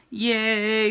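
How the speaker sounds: high, bright yay; a quick happy whoop; cheering Jennifer's comment; little cheer. Real, not acted.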